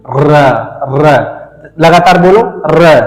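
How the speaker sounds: र with the tongue vibrating, rolled; trilled r. Shown as a demonstration. Teacher showing students how the tongue vibrates, trilled र. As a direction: let the tongue buzz on र repeatedly. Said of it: "देखो कैसे".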